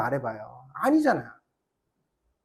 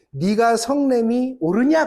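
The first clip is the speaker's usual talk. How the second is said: God asking; 5 semitones higher, 5 dB louder, slower than usual. Retold or imitated. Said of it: "그러세요".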